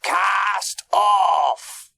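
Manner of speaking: high, loud captain's command; drawn-out bellowed call; shouted order. A narrator's reading. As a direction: shout it out to the crew. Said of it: "he shouted to Mike".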